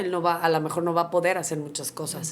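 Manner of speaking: understated cold bluntness, quoting a doctor; coldly matter-of-fact. Retold or imitated. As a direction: deliver the bad news coolly, without emphasis. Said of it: "te lo voy a decir fríamente".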